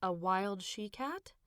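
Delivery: handle the words delicately; delicate repeat. Acted. Mother repeating child's words, delicately and slowly. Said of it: "repeated his words delicately".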